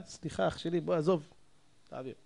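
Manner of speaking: low, soft peacemaking; conciliatory. Acted. Preacher acting a man closing a small quarrel, conciliatory. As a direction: brush the quarrel aside softly.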